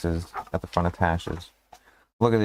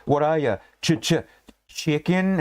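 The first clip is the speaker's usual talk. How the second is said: bully taunt; 6 semitones higher than usual. Retold or imitated. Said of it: "And he's like".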